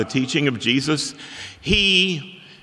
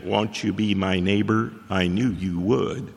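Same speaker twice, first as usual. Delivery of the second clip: Mister Rogers voice; 3 semitones lower than usual. Retold or imitated. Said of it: "Jesus is not like Mister Rogers".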